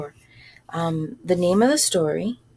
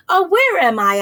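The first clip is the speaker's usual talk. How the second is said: high, louder lost mouse; mouse asking; 10 semitones higher, 6 dB louder than usual. Acted. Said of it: "I asked her".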